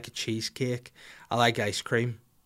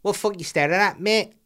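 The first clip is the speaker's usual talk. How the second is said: high, strange little voice, much higher; weird little voice; 8 semitones higher, 5 dB louder than usual. Pretend. High weird voice to freak out a creep at the pool. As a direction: pop up and squeak it at the staring perv. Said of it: "say it in this voice".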